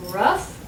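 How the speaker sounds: "rough" ending in uff, with gh as f; uff sound. Shown as a demonstration. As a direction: say "rough" alone, rhyming with stuff. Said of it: "have the pronunciation uff".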